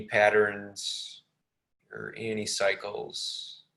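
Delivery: unhurried meditation guidance with long pauses; lightly measured, spacious meditation delivery; guided meditation. Real, not acted.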